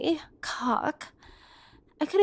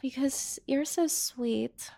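slow, softer unvoiced whisper; tender whisper; 6 dB quieter than usual. Woman thanking the brother who always takes her in, slow tender whisper. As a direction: whisper it slowly, tender and grateful.

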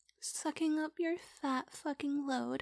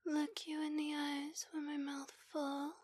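whispered; 6 dB quieter than usual. Acted. Whispered question.

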